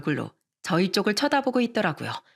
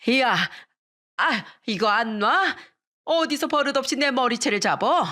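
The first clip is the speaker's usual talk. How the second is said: understated angry yell, pitched up; restrained shriek of outrage, higher pitch; mild furious yell; 4 semitones higher than usual. A narrator's reading. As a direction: yell indignantly, without full volume. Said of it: "악을 쓰면서 소리를 지르더군요".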